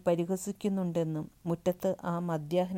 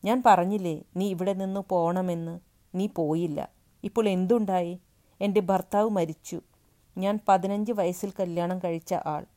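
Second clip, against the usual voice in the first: put-on louder, raised, blaming the boy; angry accusation; 2 semitones higher, 7 dB louder than usual. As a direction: pour grief out as anger. Grieving woman blames the boy.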